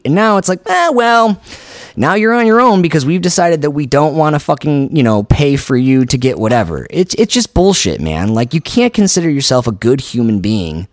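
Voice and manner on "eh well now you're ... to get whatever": mock heartless. Mocking a heartless government.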